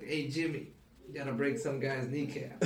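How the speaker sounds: lightly imitated East Coast wiseguy; playful New York gangster bit; mock mobster.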